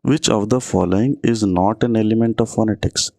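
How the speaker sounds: slow, careful quiz read; reading the question aloud. Shown as a demonstration. Teacher reading an exam question to students, slow. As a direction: spell the question out slowly for the class.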